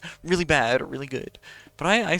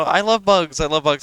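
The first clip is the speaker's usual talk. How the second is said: excited burst; 3 semitones higher, 7 dB louder than usual. Real, not acted. Gushing about loving bugs.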